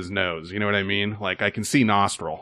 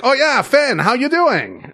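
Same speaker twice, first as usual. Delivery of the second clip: much higher, friendly phone greeting; Tien's voice; 13 semitones higher, 3 dB louder, slower than usual. Retold or imitated. Bartender recognizes Finn on the phone, high cheerful imitation. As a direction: pitch way up to sound like Tien. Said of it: "that's what he sounds like".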